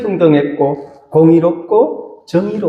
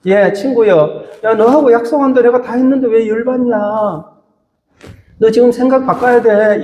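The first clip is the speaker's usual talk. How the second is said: mildly exasperated, higher-pitched scolding; 4 semitones higher than usual. Acted. Landowner answering a grumbling worker he made a deal with, mildly exasperated. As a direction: raise the pitch and take the worker to task, lightly acted. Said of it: "주인이 하도 어이가 없어서".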